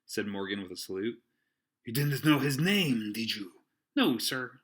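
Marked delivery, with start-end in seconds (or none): 1.9-3.6 slow, louder interrogation; stern. Acted. Silver interrogates. 3.9-4.6 sheepish sailor. Acted. Morgan answers.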